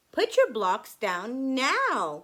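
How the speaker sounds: firm grandfather laying down the rule; serious. Acted. Grandfather telling Anne to stop playing, stern and slow. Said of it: "He's serious".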